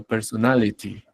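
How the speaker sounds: "personality" with the t fully sounded; crisp, careful t in "personality"; clearer pronunciation. Shown as a demonstration. Teacher explains why she speaks clearly for students, clear T. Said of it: "ser más claro".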